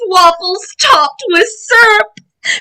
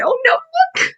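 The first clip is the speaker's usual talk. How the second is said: excited; 11 semitones higher, 3 dB quieter than usual. Real, not acted. Excited reaction to kids.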